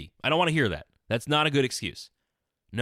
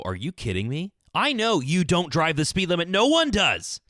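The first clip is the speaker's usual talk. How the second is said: exasperated disbelief; 10 semitones higher than usual. Retold or imitated. Telling the judge what he wanted to say, exasperated and climbing. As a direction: let the outrage climb until you laugh at how absurd it is. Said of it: "not to roll my eyes and go".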